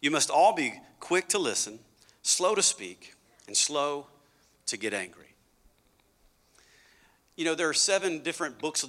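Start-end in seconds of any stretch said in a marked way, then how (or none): 0.0-5.3 scripture reading. Shown as a demonstration. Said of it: "he said this".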